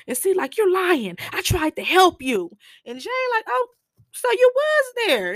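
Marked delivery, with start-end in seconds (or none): 0.6-2.5 much higher and louder, outraged; retold furious comeback; high angry accusation. Acted accusation in retold quarrel. 3.5-5.3 very high, loud, knowing; high gotcha. Retold or imitated. Jane catching the lie.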